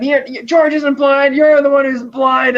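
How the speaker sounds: high, loud, drawn-out mock yelling; imitated angry shout. Girl at the ranch shouting after Cliff, imitated yelling. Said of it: "she's shouting at him".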